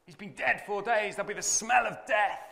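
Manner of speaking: lightly voiced high protest; alarmed Martha. Martha protesting to Jesus about the smell, lightly high. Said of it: "And Martha says".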